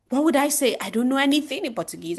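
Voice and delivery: high-pitched acted fretting; nervous. Shown as a demonstration. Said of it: "what if I'm nervous?".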